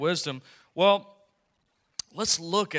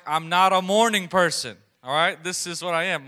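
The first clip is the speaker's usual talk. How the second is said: mock defensive retort; 3 semitones higher, 7 dB louder than usual. Dad's retorts to his daughter.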